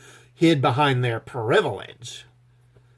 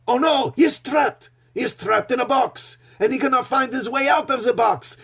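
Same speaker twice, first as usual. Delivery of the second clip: much higher, hammed-up melodrama; mock mime narrator; 8 semitones higher than usual. Reviewer mocks Picard's disguise by narrating a mime act, much higher and hammed-up. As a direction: gasp and marvel like a breathless showman over an invisible box. Mocking French mime performance.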